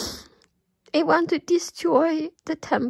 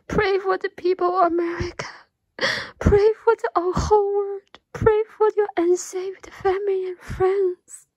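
crying as she pleads, rising louder; real crying, pleading louder; tearful plea; 3 semitones higher, 4 dB louder than usual. Real, not acted. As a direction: urge them to pray through real tears.

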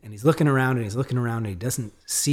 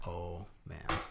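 dismayed; 5 semitones lower, 15 dB quieter than usual. Retold or imitated. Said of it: "And I was like".

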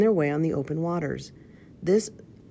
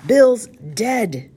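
loud, higher-pitched gruff pirate call; 7 semitones higher, 10 dB louder than usual. A narrator's reading. Pirate calls the news out from the inn, gruff shout. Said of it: "we heard a gruff voice call out".

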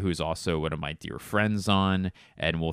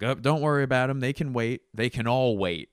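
louder, higher breezy reassurance; easygoing helper; 6 semitones higher, 5 dB louder than usual. Retold or imitated. Truck guy shrugging off waiting traffic, louder. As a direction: wave off the traffic casually. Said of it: "and he's like".

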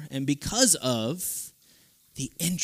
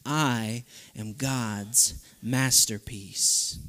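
declaration; 4 semitones lower, much slower than usual. Shown as a demonstration. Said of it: "We're gonna say it as a declaration".

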